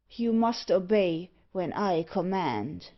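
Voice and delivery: slow, measured villain's order; commanding villain. Acted. Unseen speaker orders the dwarf to obey, slow and commanding. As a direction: command it with heavy deliberation.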